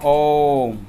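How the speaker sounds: "ओम" with the O held very long; drawn-out OM. Shown as a demonstration. Teacher showing pupils the prolonged vowel, "ओम" held long. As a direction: stretch the vowel of "ओम" to three beats. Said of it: "तीन मात्राओं का समय लगता है".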